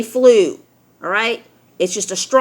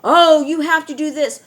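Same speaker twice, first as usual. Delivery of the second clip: lightly mocked official warning, slightly higher; a hint of a nagging authority; mock government; 4 semitones higher, 4 dB louder than usual. Government telling frightened people what to do, lightly mocking. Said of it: "the government is telling you".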